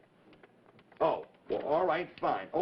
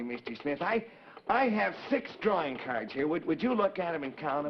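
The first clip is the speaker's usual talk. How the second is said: put-on high, eager little puppet boy; 3 semitones higher than usual. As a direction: chatter like a cheerful wooden puppet. Howdy puppet talks to Mister Smith.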